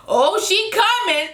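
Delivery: high, slow, giggling drawl; Keely's line, laughing and high; laughing imitation. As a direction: stretch it out while cracking up. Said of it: "Keely was like".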